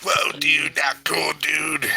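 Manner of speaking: high put-on dude voice; protesting dude. Acted victim of the prank.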